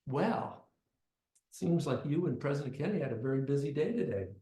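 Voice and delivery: lightly voiced scolding parent; phony voice. Parent scolding the boy back home, phony voice. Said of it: "replaced by another phony voice".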